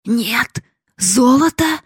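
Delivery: high, slow, disbelieving question; old miser asking again, stunned; stunned disbelief. Acted. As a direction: ask it like you can't believe your ears. Father repeats in disbelief.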